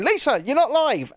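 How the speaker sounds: high-pitched mock yell; retold shout, pitched well up. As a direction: act out calling down the microphone. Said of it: "heard me shouting down the thing going".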